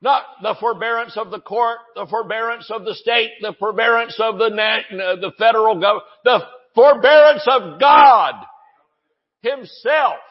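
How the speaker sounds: shouted, high preaching build; fired-up preacher shouting, a touch of Rod Parsley; preaching at full force. Real, not acted. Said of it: "I know I'm screaming".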